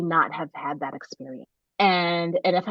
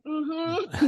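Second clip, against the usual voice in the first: breathless higher hum; out of breath; 10 semitones higher than usual. Retold or imitated. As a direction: gasp out a yes. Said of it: "I can't even talk because I can't breathe".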